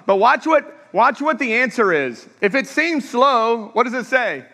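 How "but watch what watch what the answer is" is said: raised call. Real, not acted. Preacher building to point.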